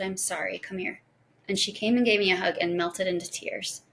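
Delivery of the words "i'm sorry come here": softly voiced, comforting apology; tender apology. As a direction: soothe a scared child quietly. Comforting the scared daughter.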